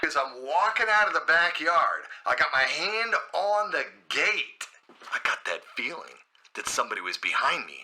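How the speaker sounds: muffled phone voice telling a story; phone caller. Retold or imitated. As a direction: imitate a friend recounting it over the phone. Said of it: "I get a phone call from Terry".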